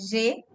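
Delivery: J said as French "zhay"; name the letter G in French, saying J as "zhay". Shown as a demonstration. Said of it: "the letter G is pronounced as".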